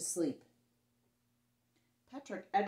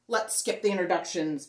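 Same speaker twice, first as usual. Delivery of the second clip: a touch of louder howl; 6 dB louder than usual. Acted. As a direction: bellow it to cut them off.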